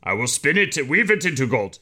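lightly voiced fairy-tale imp; Rumpelstiltskin voice. Young actor playing Rumpelstiltskin in a school play, lightly voiced. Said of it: "he already was talking like this".

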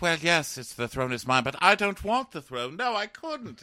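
high, falsely modest humble brag; mock humble brag. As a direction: fake modesty, climbing high. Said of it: "that humble brag thing".

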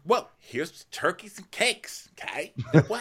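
high, swooping caricature; mock gushing chatter, stretched out; Ramona. Acting Ramona's rambling toast.

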